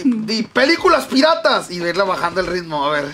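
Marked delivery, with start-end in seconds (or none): 0.4-1.7 loud then fading. Shown as a demonstration. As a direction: start loud on "Películas piratas" and fade down. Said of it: "ir hablando fuerte e irlo bajando la voz".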